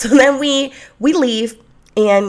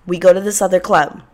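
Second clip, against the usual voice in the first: usual speaking voice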